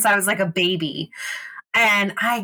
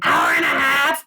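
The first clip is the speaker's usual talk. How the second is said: disbelieving rise on "Hour and a half?"; surprised echo; 6 semitones higher than usual. Real, not acted. Girlfriend hears the flight was shorter, stunned question. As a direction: repeat it back in shock. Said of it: "Jesus Christ".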